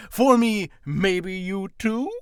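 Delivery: a hint of a timid little voice, slowed right down; mock-bashful question; shy aside. Camera-shy vlogger reading his note, lightly put-on shy voice. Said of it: "as I wrote in parentheses".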